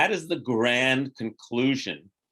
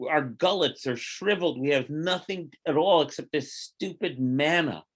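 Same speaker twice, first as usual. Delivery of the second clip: bitter complaining; 4 semitones higher than usual. Retold or imitated. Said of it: "The people began complaining bitterly".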